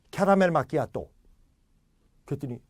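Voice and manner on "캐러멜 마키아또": put-on caramel macchiato in Korean accent, every syllable full; Korean pronunciation imitation. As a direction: mimic a Korean accent with clear "ka-ra-mel ma-ki-a-to". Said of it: "한국 사람이 어떻게 발음하는지".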